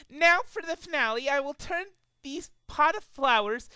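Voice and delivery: high rambling list; dopey Derpy. A narrator's reading. Derpy rambling about breakfast, high and dreamy. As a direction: lose the thread happily. Derpy takes over listing food.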